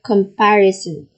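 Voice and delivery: "comparison" stressed on "par". Shown as a demonstration. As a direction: say "comparison" as com-PAR-i-son, leaning on the second beat. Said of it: "which is par".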